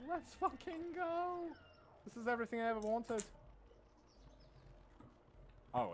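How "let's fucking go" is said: psych-up yell. Real, not acted. Hyped up in a game.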